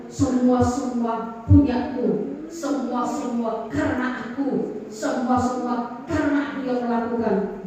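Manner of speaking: meniru orang egois dengan lambat dan lebih pelan; mocking the selfish. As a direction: suara sombong yang diseret pelan. (nada mengejek orang yang serba aku)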